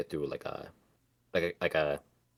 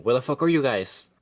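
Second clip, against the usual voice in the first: imitating an angry shout, louder and higher; mock yell; 7 semitones higher, 8 dB louder than usual. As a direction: bark it out like a fed-up Peter. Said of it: "Peter's asking".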